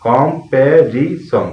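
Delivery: "কম, প্যা, রি, সং" in four separate beats; syllable by syllable. Shown as a demonstration. Teacher showing learners the four syllables, said one by one. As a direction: count out each syllable: কম, প্যা, রি, সং. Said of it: "এই শব্দটাতে আমরা চারটি syllable পাই".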